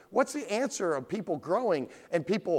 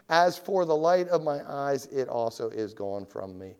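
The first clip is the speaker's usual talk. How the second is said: David crying out; 4 semitones lower than usual. Acted. Preacher voices David as his strength fails, fading plea. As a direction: let the cry sink away, spent. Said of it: "David cried out".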